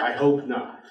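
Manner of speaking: says it through a short laugh; amused laugh at the joke. Acted. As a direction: chuckle the words out.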